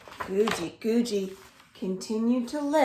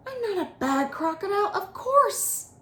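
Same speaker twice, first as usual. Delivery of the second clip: amused Guji Guji; 11 semitones higher than usual. A narrator's reading. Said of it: "And then Guji Guji laughed".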